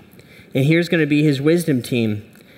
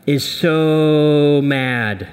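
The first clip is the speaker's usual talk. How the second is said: Hulk voice; much slower than usual. Acted. Pastor acting out angry Hulk.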